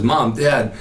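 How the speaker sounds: usual speaking voice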